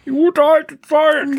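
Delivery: high, slow, dreamy sigh of nostalgia; drawn-out, high wistful voice; wistful old-timer. Acted. Nostalgic sigh about old records.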